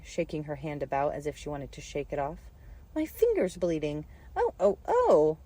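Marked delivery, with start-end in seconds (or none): 2.9-5.4 screaming. A narrator's reading. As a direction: scream in alarm like a steam whistle. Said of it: "Her screams were so exactly like the whistle".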